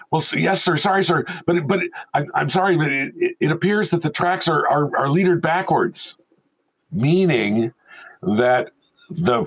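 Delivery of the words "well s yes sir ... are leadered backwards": higher, stammering mock-timid tech; lightly voiced cowering assistant; nervous apology. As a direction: stumble through the bad news politely. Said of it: "you hear from the machine room".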